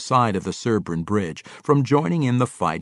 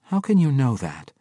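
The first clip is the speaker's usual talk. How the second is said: concerned demand; 4 semitones higher than usual. Acted. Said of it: "a concerned Catti Bree demanded".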